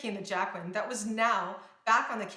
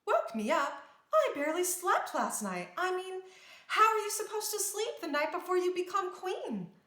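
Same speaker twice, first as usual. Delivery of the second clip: excited; 9 semitones higher, 3 dB louder than usual. A narrator's reading. Excited princess before coronation.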